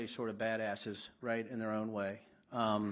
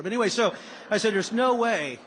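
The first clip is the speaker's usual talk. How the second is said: laughing; 10 semitones higher, 13 dB louder than usual. Real, not acted. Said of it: "don't laugh at me".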